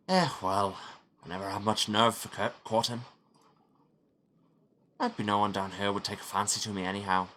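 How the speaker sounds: lightly put-on Scottish accent that slips Irish; Scottish drifting Irish. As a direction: aim Scottish, let it slide Irish. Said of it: "massively going Irish".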